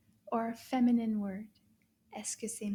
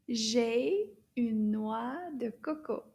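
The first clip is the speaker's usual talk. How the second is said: slow, word-by-word French modelling; drawn-out words with gaps between; slow teacher model. Shown as a demonstration. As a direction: say it slowly for learners to repeat. Teacher models sentence for repeating.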